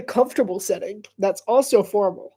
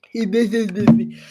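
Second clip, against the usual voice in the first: slow nasal sick voice; congested voice; 4 dB louder, slower than usual. Real, not acted. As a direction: drag it out with a stuffy nose. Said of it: "making fun of my own voice".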